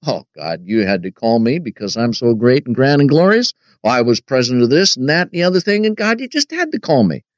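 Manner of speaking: lightly acted boast, building in pitch; mock boasting. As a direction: imitate someone self-important, rattling off credentials and rising at the end. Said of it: "can boast and say".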